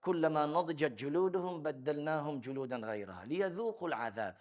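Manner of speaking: fast chanted verse, trailing off; Quranic recitation. Acted. Teacher recites the verse on hellfire to his class, melodic chant. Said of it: "Allah subhanahu wa ta'ala described".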